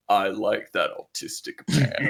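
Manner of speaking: deep, slow eldritch horror voice. Pretend. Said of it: "imagine just the deepest, most eldritch voice".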